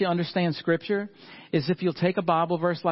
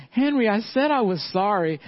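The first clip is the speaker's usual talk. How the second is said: put-on little girl; 5 semitones higher than usual. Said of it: "she's right behind him".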